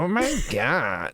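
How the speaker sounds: slow, drawn-out imitation fangirl; copied mock gushing; attempted fangirl gush. Shown as a demonstration. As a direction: have a go at the fangirl exclamation. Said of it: "I can't do that".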